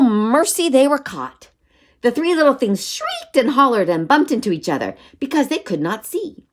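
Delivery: high-energy climax read-aloud; children's story narration. A narrator's reading. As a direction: build the excitement for young listeners.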